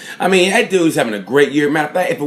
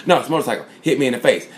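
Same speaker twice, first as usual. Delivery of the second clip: mock rider excuse; 2 semitones lower, 3 dB quieter, much faster than usual.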